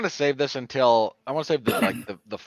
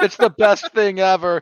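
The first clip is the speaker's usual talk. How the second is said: put-on weepy voice, higher and louder; 7 semitones higher, 8 dB louder than usual. Imitating Kevin Smith in his TikToks: mock weeping Kevin Smith. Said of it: "where he's weeping over industrial film".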